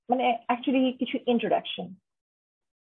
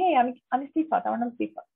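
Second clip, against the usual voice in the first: casual intro; faster than usual. Shown as a demonstration. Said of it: "খুব normally কাউকে বলি".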